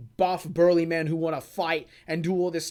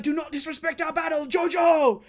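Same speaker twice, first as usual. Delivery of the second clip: Wamu rebuking; 7 semitones higher than usual. Retold or imitated. Retelling Wamu rebuking Joseph, firm. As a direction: scold the rival for cheating. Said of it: "he's like".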